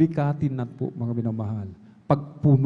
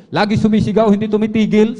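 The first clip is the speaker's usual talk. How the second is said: louder, higher preaching surge; rising fervor; 6 semitones higher, 7 dB louder than usual. Acted. Preacher telling the plane story, voice swelling with fervor. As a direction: build the fire as you preach.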